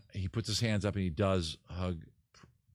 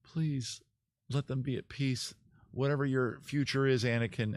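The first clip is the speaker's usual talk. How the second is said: higher, mildly acted tender plea; gentle pleading; 4 semitones higher than usual. Wife hugs her husband pleading for the children, gently acted. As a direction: implore him, lightly imitating the heroine. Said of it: "and she hugs him".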